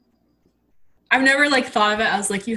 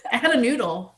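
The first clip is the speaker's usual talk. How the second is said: laughing through the line; giggly confession; 3 semitones higher than usual. Real, not acted. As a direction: chuckle it out, amused at yourself. Laughing retelling of childhood mishap.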